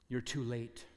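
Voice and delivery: put-on preacher to the anxious young man, low and soft; quiet, dismissive reply. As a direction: say it low and soft, turning away. Preacher answers seeker quietly.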